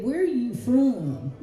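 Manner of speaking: put-on slow Brooklyn-accented question. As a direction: ask it like a Brooklyn local. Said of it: "with a Brooklyn accent".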